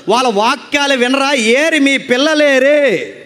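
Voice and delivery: forceful, sustained sermon delivery; preaching. Acted. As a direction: preach it out to a congregation, drawing out key phrases. (ప్రసంగ శైలిలో గట్టిగా బోధిస్తూ)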